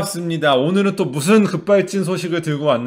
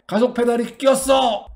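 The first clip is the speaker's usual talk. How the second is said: alarmed exclamation; 8 semitones higher, 4 dB louder than usual. Retold or imitated. Quoting drivers in videos.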